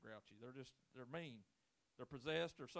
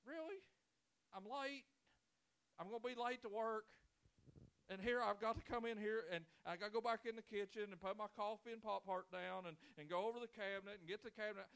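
exasperated; 5 semitones higher than usual. Retold or imitated. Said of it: "I'm like".

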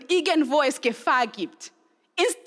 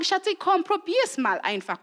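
coaxing mom; 4 semitones higher than usual. Retold or imitated. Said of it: "muss ich sagen".

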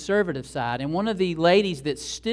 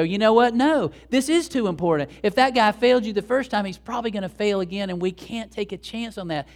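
insistent objector; 4 semitones higher, 3 dB louder than usual. Retold or imitated. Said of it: "might be listening to this story and go".

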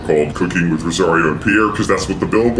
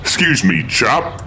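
put-on a light posh British accent asking a local; mock British; 4 semitones higher than usual. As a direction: ask a stranger in mock British. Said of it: "we might be in England".

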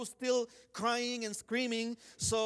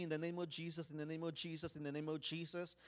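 quiet repeated prayer; 2 semitones lower, 9 dB quieter, faster than usual. Retold or imitated. Child praying on with eyes closed, quiet repeated prayer. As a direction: re-enact praying under your breath.

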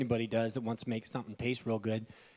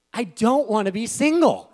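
higher, louder lament; whiny single guy; 9 semitones higher, 9 dB louder than usual. Retold or imitated. Pastor voicing his younger single self, whining. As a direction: whine about being single.

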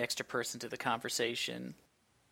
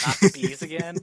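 mock Nicolas Cage yell; 4 semitones higher, 4 dB louder than usual. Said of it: "get him to yell".

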